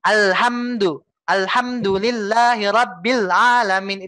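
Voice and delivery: slow, smooth Quran chant; flowing recitation. Shown as a demonstration. Teacher demonstrates a flowing recitation, slow. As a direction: let it flow, drawn out. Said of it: "Itu sudah mengalir".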